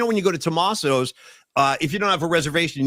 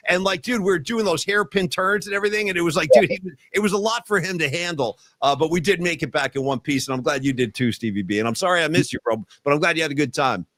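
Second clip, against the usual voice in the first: ordinary delivery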